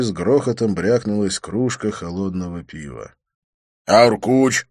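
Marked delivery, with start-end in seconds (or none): 3.9-4.7 grumbled. A narrator's reading. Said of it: "буркнул Свити".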